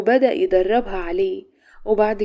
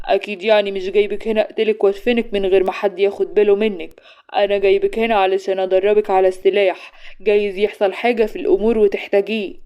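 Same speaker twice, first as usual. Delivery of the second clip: sarcastic; 4 dB louder than usual. Acted. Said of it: "رد عليها بسخرية".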